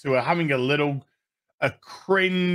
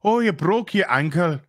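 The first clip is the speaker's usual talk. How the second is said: lightly put-on Irish lilt; mock Irish accent. Imitating Harfoots over a broken ankle, mock Irish accent. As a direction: imitate an Irish speaker with exaggerated concern. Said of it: "it's like the Irish".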